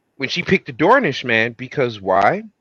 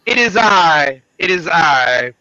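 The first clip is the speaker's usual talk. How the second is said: regal knight voice; 4 semitones higher than usual. Pretend. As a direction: speak like a medieval herald. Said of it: "let me stop talking like that".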